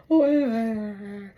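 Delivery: drawn-out mock wail; imitated moaning. Imagining life with chain round waist, mock moan. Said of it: "walking around with the big old chain".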